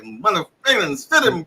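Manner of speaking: sputtered, garbled mock cursing; mock cussing fit. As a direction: imitate a kid cussing in a frenzy. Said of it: "dad cussing the storm out".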